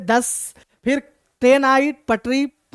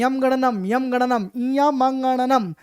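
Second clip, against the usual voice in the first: put-on nasal old man; slower than usual. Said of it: "वो नाक में बोलने लगे".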